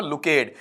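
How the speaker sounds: लुकेड as "lu-kayd", falling at the end; wrong two-syllable reading. Shown as a demonstration. Teacher repeating the written option, लुकेड as "lu-kayd". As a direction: say लुकेड with long "ay" plus "d". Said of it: "देखो इसका उच्चारण क्या लिखा".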